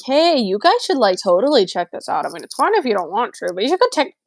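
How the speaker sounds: high, bubbly influencer pitch; hyped promo voice. Retold or imitated. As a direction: sell it like a TikTok promo. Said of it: "be like".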